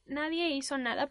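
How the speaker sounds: ordinary delivery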